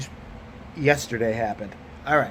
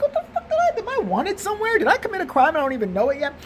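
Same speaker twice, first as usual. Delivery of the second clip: very high, squeaky panicked voice; hammed-up falsetto alarm; mock panic; 11 semitones higher than usual. Customer fearing they are wanted for a crime, mock panicked. Acted panic at teller's look.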